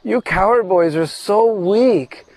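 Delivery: mocking, high-pitched scorn at the weak cowherd boys; sarcastic taunt. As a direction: sneer at them as if they're weaklings. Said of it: "she says very sarcastically".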